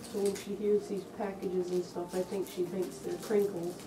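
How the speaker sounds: muffled inside costume head; speaking inside fursuit head; through a mask head. Real, not acted. Seen 5: Full fursuit head worn over face throughout the labelled speech.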